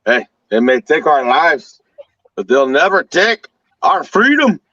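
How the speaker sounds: slow, rising Braveheart battle speech, lightly voiced; William Wallace speech. Quoting Braveheart to friends, slow rousing declaration. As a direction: declaim it slowly like a rebel leader rallying men. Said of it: "William Wallace".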